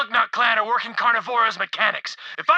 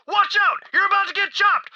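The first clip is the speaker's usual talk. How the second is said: mild mock yell, pitched up; higher-pitched retold alarm; retold warning yell; 5 semitones higher than usual. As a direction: imitate a warning cry without full volume. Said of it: "Gagfist yelled".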